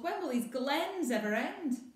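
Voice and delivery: high, loud whine; whiny grumble. Acted. Maggie tired of walking the glens, whiny. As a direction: moan at the endless hills. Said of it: "Maggie grumbles".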